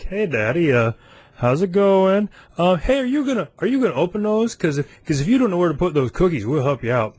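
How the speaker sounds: high, singsong kid voice, imitated; wheedling daughters. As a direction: play a kid angling sweetly for a treat. Imitates his wheedling young daughters.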